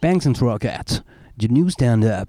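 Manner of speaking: put-on slow French-accented English billing; mock English announcer. Mock English billing of their show. (annonce en anglais à l'accent français)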